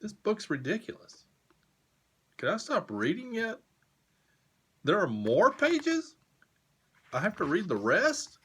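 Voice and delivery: hammed-up distress; mock exasperation. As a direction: whine high like a trapped reader.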